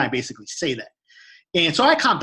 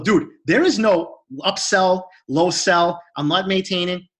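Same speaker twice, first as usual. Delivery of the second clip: raised pitch, spaced-out refusal; emphatic refusal; 3 semitones higher, 3 dB louder, much slower than usual. Retold or imitated. Cutting off the gym employee's sales talk, emphatic. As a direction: retell it firmly, leaning on each item.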